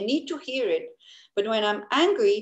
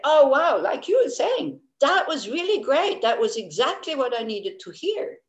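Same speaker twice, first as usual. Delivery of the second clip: imitating gushing praise; 5 semitones higher than usual. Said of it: "they will come and say".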